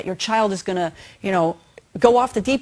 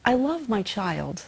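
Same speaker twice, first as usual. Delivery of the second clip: mantra; 5 dB quieter, slower than usual. Shown as a demonstration. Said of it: "you hold it and you think".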